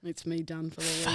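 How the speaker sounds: soft whispered sign-off; whispering. Real, not acted. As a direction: whisper it as the show ends.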